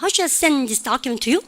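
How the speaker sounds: slow, "send" and "document" beaten out; stress on content words. Shown as a demonstration. Teacher demonstrating for the class, stress on "send" and "document". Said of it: "send하고 document 듣고".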